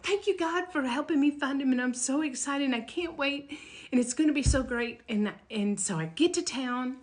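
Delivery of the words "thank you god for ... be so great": higher, bubbling thankful prayer; joyful praise. Retold or imitated. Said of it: "I praised Jesus".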